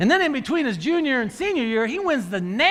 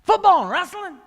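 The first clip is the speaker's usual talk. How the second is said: shocked disbelief; 7 semitones higher, 4 dB louder, faster than usual. Retold or imitated. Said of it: "I go".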